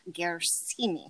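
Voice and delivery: "Gersimi" with hard G and long SEE; "Gersimi" as gair-SEE-mee, deliberate; careful pronunciation. Shown as a demonstration. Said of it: "I have a G E R S I M I".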